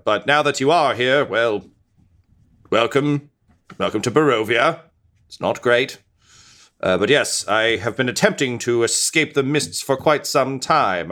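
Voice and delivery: a hint of a doomed noble skeleton; unearthly voice. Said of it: "he's like".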